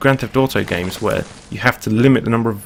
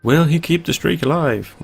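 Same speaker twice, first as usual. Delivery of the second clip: sports announcer; 6 semitones higher than usual. Pretend. Mock sports commentary on own death.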